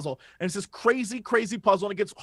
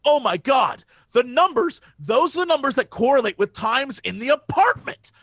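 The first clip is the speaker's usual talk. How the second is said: excited discovery; 2 semitones higher than usual. Retold or imitated.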